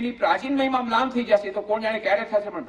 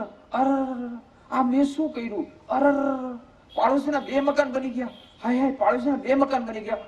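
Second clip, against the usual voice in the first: hammed-up wail, a raised lament; mock wailing; 7 semitones higher than usual. Jealous husband wails that the neighbour got two houses, hammed up.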